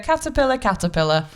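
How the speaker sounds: lightly voiced teacher, starting high and dropping to normal; understated teaching voice. Shown as a demonstration. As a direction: say it as you would to pupils, without much animation. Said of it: "That's just boring".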